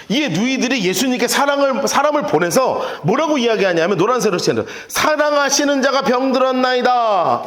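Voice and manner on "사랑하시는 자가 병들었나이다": slow, archaic biblical recitation; formal King James style; solemn scripture reading. Shown as a demonstration. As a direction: read it like old scripture. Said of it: "이렇게 해요".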